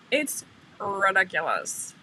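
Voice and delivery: slow, stretched words; drawn-out exasperation. Real, not acted. Host venting about uploading videos, drawn-out exasperation. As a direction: drag out each word for emphasis.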